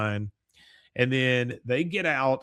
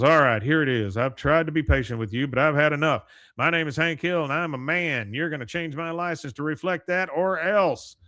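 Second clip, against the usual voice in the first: mock Hank demand; 3 semitones higher, 4 dB louder than usual. Hank confronts the license clerk.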